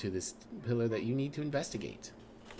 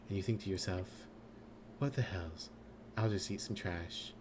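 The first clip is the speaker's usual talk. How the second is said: corrected skill voice; 3 semitones lower, 6 dB quieter than usual. Acted. The right skill voice scolding the player, lower and softer. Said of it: "I don't know why I started doing the intelligence voice".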